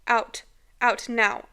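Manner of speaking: loud retold scream to get out; screamed order. Mother screaming at the thing in closet, loud yell. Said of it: "I screamed".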